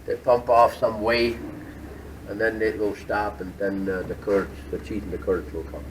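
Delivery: loud over the whey pump; talking over machines. Real, not acted. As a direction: project over the factory floor. Speaking over the cheese vat machinery.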